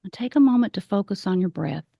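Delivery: calm meditation guide with long pauses; guided meditation. Acted. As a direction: lead the breathing gently, leaving space between phrases. Leads a grounding meditation.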